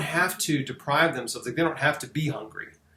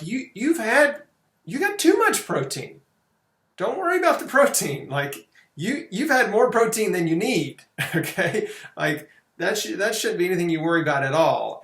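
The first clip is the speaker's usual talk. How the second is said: high, insistent, almost laughing at the worry; emphatic reassurance; 5 semitones higher than usual. Retold or imitated. Telling an overweight client he has plenty of protein, high and emphatic. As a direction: brush off the worry with a big high voice. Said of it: "but I'm like".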